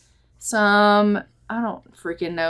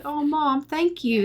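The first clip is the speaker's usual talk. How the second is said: higher-pitched, gushing gratitude; touched daughter; 5 semitones higher than usual. Acted. Daughter thanking her mom at Harvest Fest, touched. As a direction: coo it as an acted, touched daughter.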